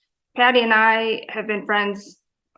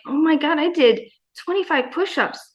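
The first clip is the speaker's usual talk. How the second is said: thrilled disbelief; 3 semitones higher than usual. Retold or imitated. Thrilled at own workout.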